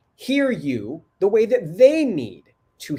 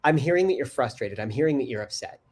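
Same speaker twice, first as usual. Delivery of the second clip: calm reassuring; 3 semitones lower than usual. Shown as a demonstration. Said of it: "you talk about what you're hearing".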